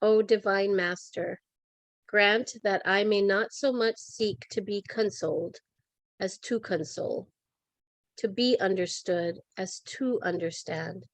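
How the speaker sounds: measured, reverent reading of a prayer; calm, evenly paced devotional delivery; prayer recitation. Real, not acted. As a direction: pause before each answering word, like a litany. Recites Saint Francis's peace prayer.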